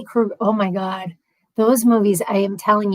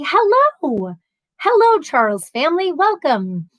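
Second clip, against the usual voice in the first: bright greeting; 6 semitones higher than usual. Real, not acted. Greeting viewers.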